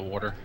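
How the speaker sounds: R slipped in before the T of "water"; with an R sound. Real, not acted. Showing friend how they pronounce it, "water" with an R. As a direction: say "water" as "warter". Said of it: "It's just a Midwestern accent".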